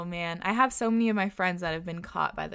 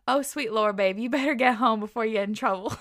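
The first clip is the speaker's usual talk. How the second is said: put-on Southern accent; 2 semitones higher, 6 dB louder than usual. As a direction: imitate a Southern uncle scolding. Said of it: "in his southern accent".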